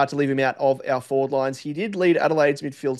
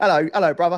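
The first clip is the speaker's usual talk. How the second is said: put-on London Cockney accent; 3 semitones higher than usual. Joking while saying hello to a player's brother: Cockney accent.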